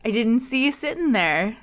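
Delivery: bright, overly polite host greeting; customer service voice. Pretend. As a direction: welcome them like a shop clerk. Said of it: "That's my customer service voice".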